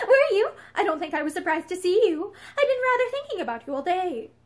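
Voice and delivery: high, laughing nervous chatter. A narrator's reading. Wife laughing nervously with her old suitor. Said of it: "Pansy laughed nervously".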